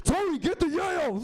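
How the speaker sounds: high loud Scarface-style rant; Scarface mom. Retold or imitated. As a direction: mom doing Al Pacino, tough and loud. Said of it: "She was like Scarface".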